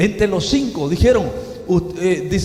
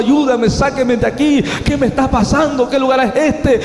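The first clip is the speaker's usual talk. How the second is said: retold cries for help; 4 semitones higher, 3 dB louder than usual. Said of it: "le gritaba a mis conocidos".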